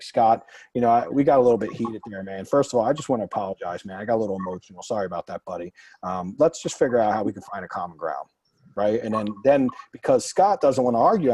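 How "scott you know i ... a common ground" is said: acted de-escalation, easing down lower; smooth things over after a heated moment; calm apology. Negotiator apologizing to Scott after getting heated, calm and conciliatory. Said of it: "I release it and I just stop instantly".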